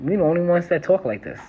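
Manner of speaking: light New York accent, proudly shown off; New York talk, lightly played up. Shown as a demonstration. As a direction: show off your New York accent a little. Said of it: "You can't hear the accent?".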